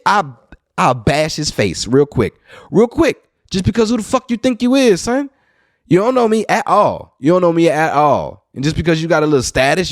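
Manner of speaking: storyteller threatening the rude man in earnest; indignant threat. Retold or imitated. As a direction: puff up and threaten.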